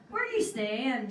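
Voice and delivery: a hint of Belfast lilt on the bouncer; light Belfast twang, barely shifted; lightly Belfast accent. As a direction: put on a mild Belfast accent. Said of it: "I'm gonna accent".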